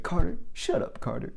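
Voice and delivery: a sharp high scold, pitch jumping up on Carter; imitating a manager snapping at a coworker; mock scolding. Manager telling Carter off during an interview, mock scolding.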